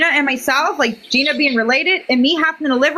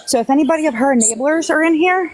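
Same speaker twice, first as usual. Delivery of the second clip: winded after hurrying outside; breathless, catching air between words; out of breath. Real, not acted. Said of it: "I'm out of breath".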